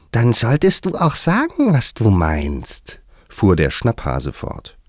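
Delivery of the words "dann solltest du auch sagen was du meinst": high hare voice, slowing at the end; high animal voice dropping to a slow finish; admonishing March Hare. A narrator's reading. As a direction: lecture high-voiced, drawing out the last words. March Hare's figure admonishes Alice.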